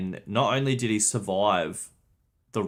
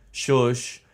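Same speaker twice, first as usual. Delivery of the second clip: mock shush; 4 dB louder than usual. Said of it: "the whole chat's just spamming it".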